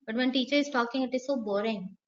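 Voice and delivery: droning lullaby of a boring lesson; bored teacher voice. Shown as a demonstration. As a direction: sound dull and lifeless like a dreary teacher. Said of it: "She's just talking like this".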